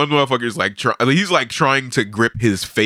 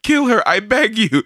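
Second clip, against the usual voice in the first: pleading crowd; 10 semitones higher than usual. Retold or imitated. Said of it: "people are like".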